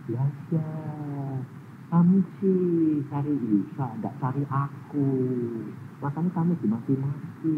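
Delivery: soft, slow calm voice; gentle God. Retold or imitated. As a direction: softly explain the reason. (suara Tuhan yang lembut)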